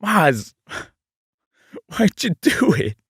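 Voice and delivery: high-pitched, overdone Australian plea; put-on Australian, pitched high; Australian accent. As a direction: ham up an Aussie accusation. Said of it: "using the accent again".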